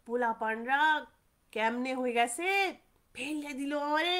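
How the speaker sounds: a light attempt at a Bangal accent; mild Bangal dialect grumble, lightly voiced. Fallen cyclist cursing the boys, in a light Bangal accent. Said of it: "বাঙাল ভাষায় সে বলছে".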